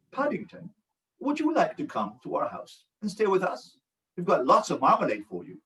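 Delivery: soft British storybook voice; lightly put-on British accent. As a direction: read it gently in a British accent. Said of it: "can you speak with a British accent".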